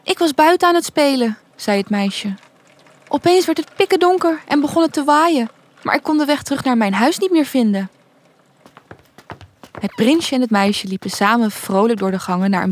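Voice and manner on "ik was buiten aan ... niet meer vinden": put-on higher-pitched storybook girl, explaining herself; little lost girl. Girl tells the prince how she got lost, higher girlish voice.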